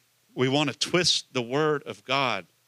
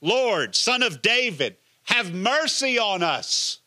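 higher, louder desperate cry for mercy; louder, higher plea to be heard; shouted louder; 7 semitones higher, 3 dB louder than usual. Retold or imitated. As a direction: call out over the crowd, pleading. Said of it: "here's what they said louder".

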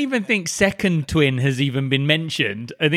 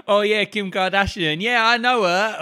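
mock name-dropping; 5 semitones higher than usual. Mocking John's name-dropping brag.

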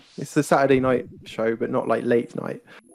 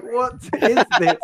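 high, slow and strained, laughing through it; straining high Elmo note; 10 semitones higher than usual. Retold or imitated. Singing along with Elmo, mock high-pitched strain. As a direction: squeak it out like a note you can't reach. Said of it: "this scale that you've never hit before".

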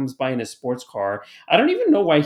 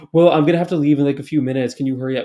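imitated impatient complaint, opening loud; pre-complaining; 7 dB louder, faster than usual. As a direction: complain in advance, as a retold customer. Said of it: "started pre-complaining".

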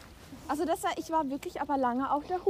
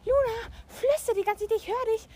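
imitating her friend; 8 semitones higher than usual. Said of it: "wenn du gesagt hast".

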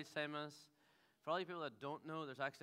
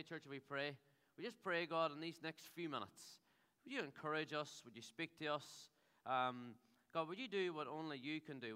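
prayer. Acted. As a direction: pray gently over the room. Leads congregation in prayer.

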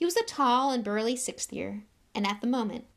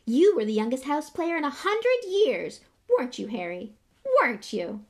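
very high, loud, breathless little fan; eager young boy; 5 semitones higher, 7 dB louder than usual. A narrator's reading. Young fan Colin rushes to show Harry his photo, very high. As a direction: bounce with excitement at your hero.

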